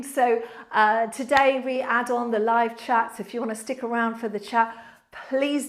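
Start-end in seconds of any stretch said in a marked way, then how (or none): none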